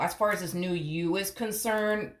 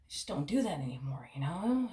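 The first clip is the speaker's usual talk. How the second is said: whisper; 2 semitones lower, 4 dB quieter than usual. Acted. Joking the partner went quiet.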